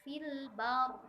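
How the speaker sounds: Fil bar with the r pressed and thick. Shown as a demonstration. Teacher showing the pressed heavy r. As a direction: lift the tongue root on bar. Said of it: "ditekannya dengan mengangkat pangkal lidah".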